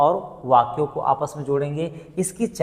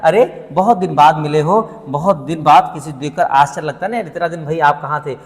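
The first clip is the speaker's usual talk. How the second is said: surprised; 4 dB louder than usual. Shown as a demonstration. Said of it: "क्या कह रहा है".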